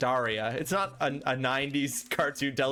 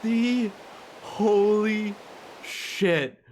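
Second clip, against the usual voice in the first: laughing disbelief; 2 semitones higher, 3 dB quieter, much slower than usual. Real, not acted. Alone, stunned by being abandoned.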